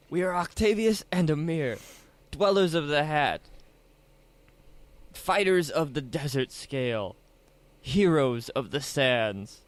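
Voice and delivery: grand, slowing heroic declaration; heroic proclamation. Acted. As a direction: announce yourselves like heroes. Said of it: "Octavius is gonna do his".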